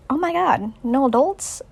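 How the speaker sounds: put-on high-pitched gleeful kid; excited Ralph. Boy finds no adults on the island, excited. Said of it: "Ralph is pretty excited".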